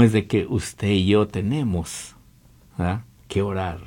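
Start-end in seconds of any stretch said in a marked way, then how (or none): none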